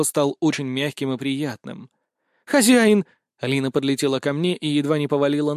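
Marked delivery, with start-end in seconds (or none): 2.4-3.1 joyful cry. Acted. Spirit rushing to her master.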